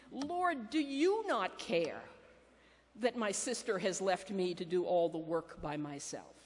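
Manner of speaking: mild exasperated plea to Jesus; annoyed complaint. Retold or imitated. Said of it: "but she says to him".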